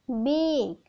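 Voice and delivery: बेक said clearly as the answer; model pronunciation. Shown as a demonstration. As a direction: say बेक cleanly. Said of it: "pronunciation होगा वो होगा बेक".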